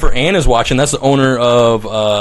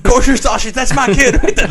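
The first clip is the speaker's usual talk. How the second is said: high, loud put-on proud parent; 12 semitones higher, 4 dB louder than usual. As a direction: cheer it like a proud dad. Imitating proud parents at show.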